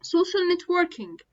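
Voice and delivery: social networking stretched out slowly, every sound clear; teacher demo of social networking, slowed down; slow careful pronunciation. Shown as a demonstration. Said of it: "النطق بتاعها".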